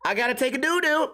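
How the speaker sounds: mock panic about needing the toilet; urgent need to poop. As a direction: plead like you're about to burst.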